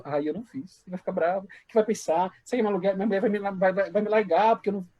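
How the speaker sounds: mock-anxious inner voice, in short worried bursts; tense. Husband fretting his wife may leave him, mock tense. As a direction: fret in a string of nervous questions. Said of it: "E a gente fica tenso".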